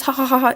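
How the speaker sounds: a hammed-up villain's ha ha ha; mock evil laugh. Mocking the villain Monarch with a fake evil laugh. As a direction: cackle like a cartoon villain, half in jest. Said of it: "evil laughing".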